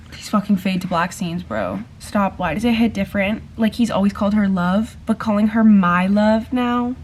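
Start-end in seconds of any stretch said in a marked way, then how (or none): 5.2-7.0 "my" punched louder and drawn out; stress on MY. Real, not acted. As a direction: lean slowly on the word "my". Contrasts "love" with "my love.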